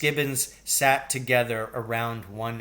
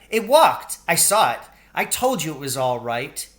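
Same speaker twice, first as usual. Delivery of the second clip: put-on high, loud triumphant kid; excited child; 4 semitones higher, 6 dB louder than usual. A narrator's reading. Billy telling his family the mouse is fine, excited. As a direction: crow with delight.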